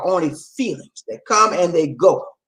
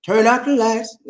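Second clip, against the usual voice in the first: A soul singer; 3 semitones higher than usual. Acted. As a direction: croon it like a soul star. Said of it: "Remember a singer used to say".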